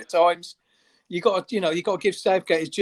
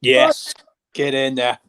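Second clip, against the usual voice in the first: celebrating shout; 4 semitones lower, 5 dB louder than usual. Real, not acted. Fan celebrating a win.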